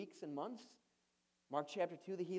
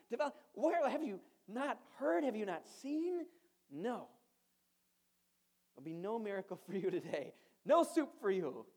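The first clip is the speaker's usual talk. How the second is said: exasperated, higher and louder, half-mocking scold; frustrated rebuke; 4 semitones higher, 3 dB louder than usual. Jesus rebukes the Pharisees asking for a sign, exasperated and raised. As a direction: scold them like a fed-up teacher, raising the voice. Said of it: "kinda seems frustrated and almost gives them a bit of a rebuke".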